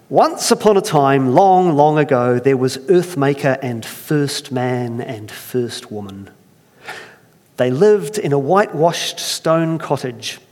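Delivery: fairy-tale telling, measured and lively; storytelling narration. Acted. Preacher reading a folk tale to church. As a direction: draw the congregation into the tale.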